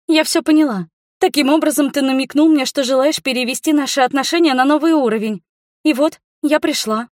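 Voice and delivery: put-on high, eager girlish voice; girl gushing to the man she adores; smitten girl. A narrator's reading. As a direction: gush it high and hopeful.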